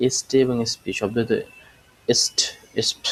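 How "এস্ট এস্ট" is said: এস্ট said apart, ending in a hissed s and t; pronunciation demo. Shown as a demonstration. Teacher showing how st is pronounced, pronunciation demo. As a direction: model এস্ট as one separate cluster. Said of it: "এরকম উচ্চারণ করা হয়".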